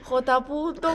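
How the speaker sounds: fading call. Retold or imitated. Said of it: "se fue bajando la intensidad".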